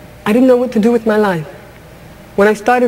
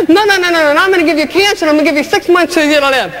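higher and fast, handing down the sentence; bossy voice of society; 4 semitones higher, faster than usual. Retold or imitated. Society giving her cancer, fast and higher. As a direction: deliver the diagnosis like a decree. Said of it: "society took me by the back of the neck and said".

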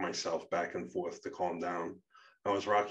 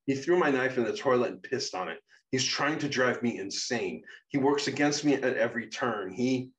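loud, higher, heated rant; angry outburst; 5 semitones higher, 6 dB louder than usual. Acted. Guardian rants to Becca about Shadow, angry and exasperated. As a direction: pile up the accusations, louder and higher.

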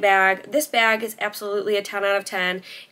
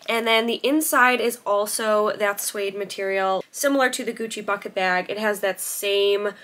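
talking around a toothpick; words shaped by a toothpick in mouth. Real, not acted. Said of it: "Sorry, I have a toothpick in here".

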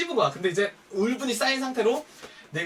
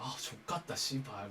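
mutter; 10 semitones lower, 15 dB quieter, slower than usual. Retold or imitated. Muttering alone while smoking outside.

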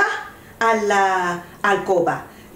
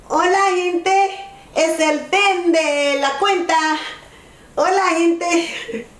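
Caleb; 6 semitones higher than usual. Pretend. Aunt greets viewers on nephew's behalf, high playful voice. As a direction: speak for the little nephew, pitched up. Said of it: "Caleb dice".

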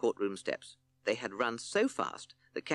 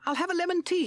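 tiny timid toad, much higher and louder; high little toad voice; 6 dB louder, faster than usual. Acted. Timid Toad orders from the judge in a high tiny voice. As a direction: pipe it up small and eager.

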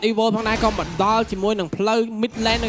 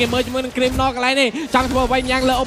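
live play-by-play. Real, not acted.

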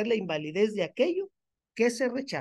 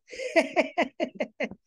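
mocking laugh; 6 semitones higher than usual. Real, not acted. Mocking a commenter.

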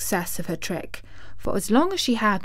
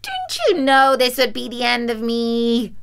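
high witch wail; despairing wail of a dying witch; 4 semitones higher than usual. A narrator's reading. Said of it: "in a wailing, despairing voice".

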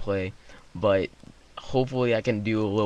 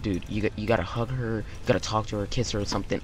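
softer, conspiratorial push to the cousin; hushed urging; 6 dB quieter, faster than usual. Retold or imitated. Boy quietly urges his cousin to go for the girl.

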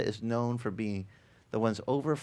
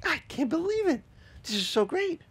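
higher, gushing disbelief; mock delight. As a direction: squeal with happy disbelief. Retold joyful reaction.

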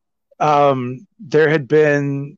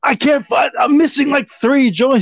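high-pitched frustrated searcher; retold frantic complaint; 12 semitones higher than usual. Telling houseguest about the missing joints, high retold frantic complaint. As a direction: pitch it up, fretting over what's lost.

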